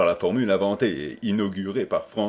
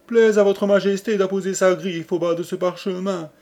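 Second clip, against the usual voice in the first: high, ringing courtly address; raised ceremonial voice; formal petition to a king; 8 semitones higher, 4 dB louder, faster than usual. Acted. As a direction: proclaim it as to His Majesty.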